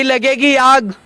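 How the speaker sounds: slow, deliberate recitation of a sher; reciting a couplet. Acted. Man quotes Rahat Indori to the reporter, slow recitation. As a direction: quote the poet slowly, weighing each word. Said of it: "एक राहत इंदौरी साहब का शेर है".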